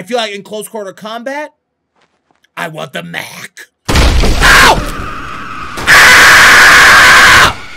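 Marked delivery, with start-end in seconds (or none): 3.9-7.7 loud high scream of shock; startled scream. Real, not acted. Player ambushed in the game, startled scream. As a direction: scream as if suddenly attacked. Jump-scared by attack in game.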